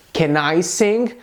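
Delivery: slow "Can I sing" rising on "sing"; question intonation. Shown as a demonstration. Teacher models the inverted sentence, as a slow question. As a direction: ask "Can I sing" slowly, lifting "sing". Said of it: "eu também vou mudar a entonação".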